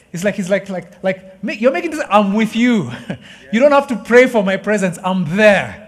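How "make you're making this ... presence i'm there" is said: emphatic God voice. Acted. Voicing God's reassurance.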